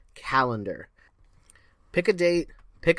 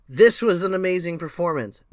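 the rave line pushed out louder and more excited; louder mock rave; 4 semitones higher, 6 dB louder than usual. Repeating a performance rave with louder, more excited praise. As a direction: oversell the praise, a little louder.

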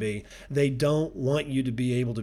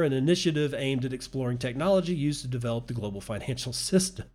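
real laugh breaking up the last word; breaking into laughter; faster than usual. Real, not acted. Podcaster cracking up at a news article, laughing mid-read. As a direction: read quickly until laughter takes over. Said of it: "I'm laughing at that".

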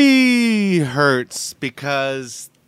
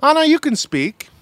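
playful host voice bringing the show back from a break; a hint of a radio host; mock host announcement; 5 semitones higher, 3 dB louder than usual. Co-host teasing, announcing the return from the break, mock-host style. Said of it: "pretend like you're in charge of the ad breaks".

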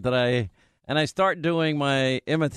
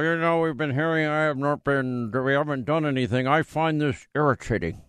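a hint of a stuffy, put-upon senator; Mitch McConnell impression. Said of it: "this is my Mitch McConnell".

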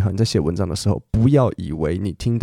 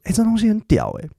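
put-on high, light foreign-accented Mandarin; a hint of a foreigner's Mandarin accent; foreigner speaking mandarin; 11 semitones higher than usual. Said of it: "虽然带一点点那种外国人讲中文腔调".

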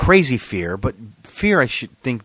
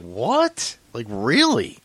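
retold shocked question, pitched way up; incredulous; much slower than usual. Driver reacting to the cop in disbelief, incredulous. Acted disbelief at being pulled over.

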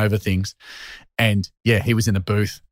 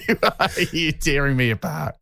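mock retort; 7 semitones higher than usual. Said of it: "And you're like".

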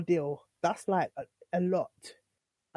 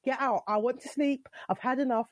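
higher, exasperated order; fed up; 5 semitones higher than usual. Retold or imitated. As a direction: done with him, send him out. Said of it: "And I'm like".

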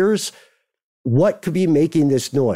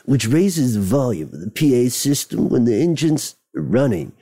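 lightly put-on cool guy reading; a hint of cool guy in an official statement. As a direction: keep up a slight cool guy act. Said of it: "Let's keep it".

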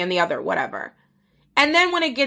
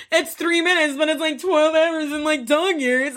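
mocking his excuse; 5 semitones higher than usual.

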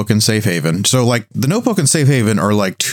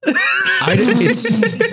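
yelp. Real, not acted. Sudden yelp mid-answer.

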